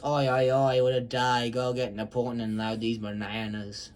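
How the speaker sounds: lightly voiced cartoon character; a hint of a put-on character voice; the speaker as Izzy. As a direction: play the character lightly, close to your own pitch. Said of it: "The speaker, as, as Izzy, goes".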